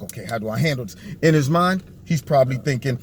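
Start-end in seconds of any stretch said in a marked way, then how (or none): 0.0-0.9 low, soft inner worry; a hint of flustered host; imitating Don Lemon's worry. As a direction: think it nervously under your breath. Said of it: "Don Lemon's just like".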